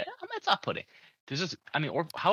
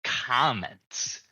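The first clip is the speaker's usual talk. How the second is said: incredulous; 5 semitones higher, 4 dB louder, much slower than usual. Retold or imitated. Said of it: "I'm like".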